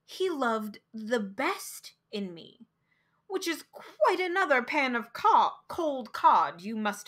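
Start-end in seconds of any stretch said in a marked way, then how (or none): 0.0-2.7 a hint of a slowed, changed voice for her words; lightly voiced quote, slowed right down; slow quoted words. Narrator quoting what she actually said, lightly voiced and slow. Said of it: "she had said".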